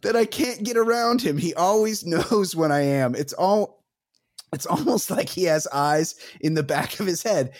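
mock British accent, starting high and settling; badly faked British lover, cracking up midway; revolting British accent. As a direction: attempt a silly British accent that slips. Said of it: "Revolting British accent".

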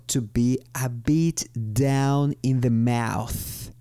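"to be a bit down in the mouth." spoken slowly, every word clear; teacher reading the phrase slowly; slow clear model phrase. Shown as a demonstration. (frase modelo dicha despacio)

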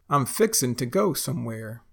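"fixin'" ending in n; dropped G. Shown as a demonstration. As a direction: drop the g in "fixin'". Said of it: "we say fixin' to".

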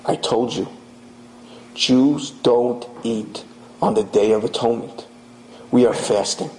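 low, measured, composed reply; very calm. A narrator's reading. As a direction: answer the threat calmly and steadily. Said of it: "in a very calm voice".

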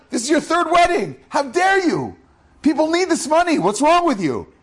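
high, fast, outraged yelling that builds to a shout; indignant shouting. Retold or imitated. Friend confronts the man over his third lavish wedding, high outraged shouting. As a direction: tear into him like a furious friend.

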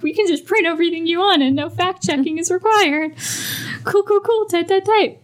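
sarcastic sing-song cool cool cool; mock breezy. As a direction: play the careless media boss, smug. Sarcastic imitation of news media.

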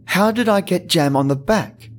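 puzzled. Acted. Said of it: "I wondered".

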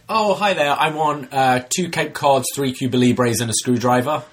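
high, bright ordering voice; chirpy customer. Pretend. Customer ordering cocktails to confuse server, chirpy and high. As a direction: cheerfully reel off the order.

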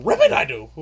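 very high, loud frog impression; Yoda. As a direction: squeal it as a pretend frog talking backwards. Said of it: "he pretended he was an actual frog".

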